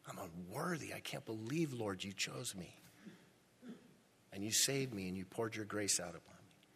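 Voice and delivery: soft, humbled confession to the Lord; quiet, awed prayer of an unworthy believer; humble, unworthy. Retold or imitated. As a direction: hush it like a grateful sinner. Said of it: "incredible sense of unworthiness".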